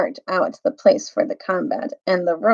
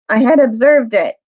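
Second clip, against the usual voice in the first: proud little mouse; 4 semitones higher, 6 dB louder than usual. Acted. Reepicheep replies with dignity.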